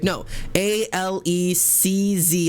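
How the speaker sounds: letters spaced out slowly; spelling out slowly. Retold or imitated. Cutting off a receptionist who assumes the spelling, slow. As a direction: insist on each letter, slowly. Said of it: "I got it".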